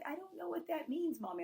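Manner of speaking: put-on high-pitched little-kid voice; five-year-old daughter. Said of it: "she even looked at me".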